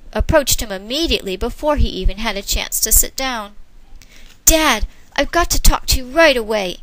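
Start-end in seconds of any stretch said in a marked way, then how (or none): 4.5-6.8 pressing, a bit loud; urgent. Acted. Son urgently begging his father. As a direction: hurry to get dad's ear. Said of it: "he said urgently".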